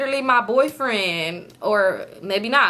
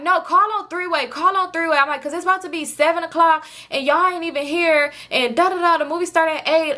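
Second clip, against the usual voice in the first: higher-pitched, insistent irritation; irritated; 5 semitones higher than usual. Retold or imitated. Storyteller retells pushing him to call on three-way, irritated. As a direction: press the demand, mildly exasperated. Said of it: "I'm just so irritated".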